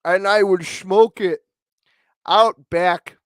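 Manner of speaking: hammed-up wise elder; Native American impression. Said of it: "Do the Indian voice for me".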